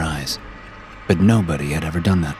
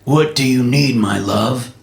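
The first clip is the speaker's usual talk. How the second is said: gravelly dead man impersonation; 5 semitones higher than usual. Acted. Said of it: "trying to impersonate the dead man's gravelly voice".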